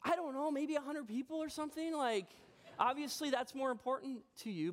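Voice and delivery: a touch of hurt sarcasm; sarcastic husband retorting to his wife. Retold or imitated. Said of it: "I was like".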